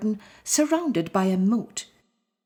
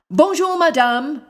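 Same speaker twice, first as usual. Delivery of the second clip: high, louder polite bonjour; polite lion greeting; 8 semitones higher, 7 dB louder than usual. A narrator's reading. Lion greets the knitting lady, politely. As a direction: greet her politely with a nod. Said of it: "the Happy Lion nodded".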